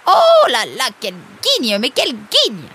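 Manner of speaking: loud high wail of oh, then griping; vexed lament. Acted. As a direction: bemoan your rotten luck. Tangled in the rope.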